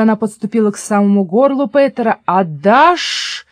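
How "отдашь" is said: drawn-out rising demand with a hissed ending; sibilant, menacing elemental demand; hissing water voice. A narrator's reading. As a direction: press the question like hissing water. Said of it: "что и в шипении змеи".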